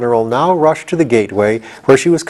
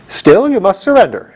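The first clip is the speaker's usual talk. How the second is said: fierce; 9 semitones higher than usual. Acted. General Ginger insists to the gatekeeper, fierce and high. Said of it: "exclaimed the general fiercely".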